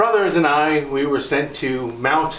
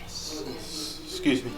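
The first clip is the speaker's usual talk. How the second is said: choked up; 13 dB quieter than usual. Acted. Choking up over dead wife.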